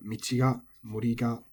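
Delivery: "michi ga", "mori ga" with the particle staying up; no pitch drop on "ga" after "michi" or "mori"; unaccented. Shown as a demonstration. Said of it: "would also be unaccented".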